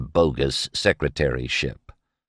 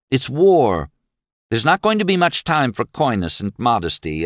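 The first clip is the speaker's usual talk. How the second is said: Sissy, earnest and pressing; 6 semitones higher than usual. Acted. Sissy lectures her father seriously.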